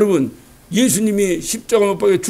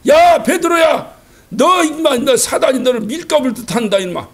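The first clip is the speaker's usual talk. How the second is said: scolding. Retold or imitated. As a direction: scold him like a stern teacher. Jesus scolds Peter.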